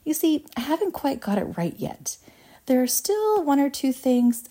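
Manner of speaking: high, airy, gentle caution; mild, hesitant reassurance in a high voice. Acted. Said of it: "told her gently".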